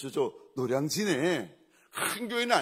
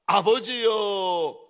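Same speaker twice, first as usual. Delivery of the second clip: son calling out to his father, slow and raised; Isaac; 4 semitones higher, 6 dB louder, much slower than usual. Acted. Isaac suddenly addressing his father on the climb, calling out. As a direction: draw the call out long, high and loud. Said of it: "갑자기 아들 이삭이, 아비에게 이렇게 말합니다".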